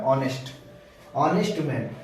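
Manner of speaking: ऑनेस्ट said as "onest", no h; teacher models ऑनेस्ट with the h silent. Shown as a demonstration. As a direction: drop the h in ऑनेस्ट. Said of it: "एच इसमें silent है".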